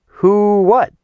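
high, loud, baffled question; acted bewildered woman's voice. A narrator's reading. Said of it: "What the hell was he talking about".

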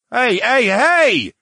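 loud, high shouts for attention; high, offended yelling; indignant cry. Acted. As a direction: holler to be noticed. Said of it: "A B cried".

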